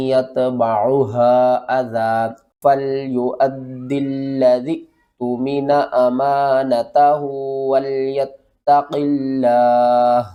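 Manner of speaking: measured, drawn-out tajweed recitation; slow Quran recitation. Shown as a demonstration. Teacher recites the verse slowly for students. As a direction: chant each word slowly and evenly.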